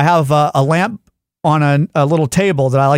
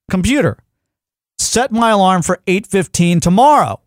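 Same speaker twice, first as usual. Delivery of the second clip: slightly raised, slower command; a little louder; 4 semitones higher than usual. Retold or imitated. Man repeating himself to an unresponsive speaker, a little louder. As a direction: spell the command out slowly and firmly. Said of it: "I say a little bit louder".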